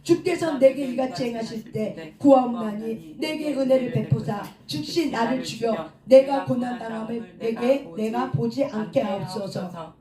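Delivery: measured congregational Bible reading; scripture reading aloud. Acted. Preacher leading congregation through Moses' prayer, measured scripture reading. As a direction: read the verses out steadily for all to follow.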